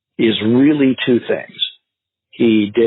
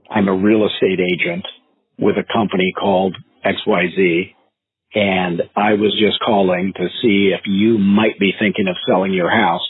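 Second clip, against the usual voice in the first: slow calm pitch; 3 semitones lower than usual. Shown as a demonstration. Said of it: "like that slow".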